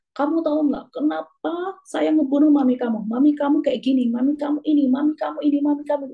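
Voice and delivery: angry accusation. Retold or imitated. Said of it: "Uh, geram sekali gitu ya".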